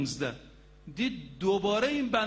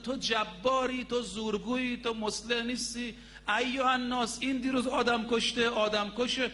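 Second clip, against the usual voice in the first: mild mock shout, pitched up; retold outcry; 4 semitones higher than usual. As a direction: imitate a public accusation without full volume. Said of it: "یه وقت فریاد زد".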